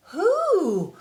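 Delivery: high, loud eager call. Acted. The animals calling to the bear, high loud eager call. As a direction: shout it together, dying to know. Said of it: "called the bluebirds and the rabbits and the moles".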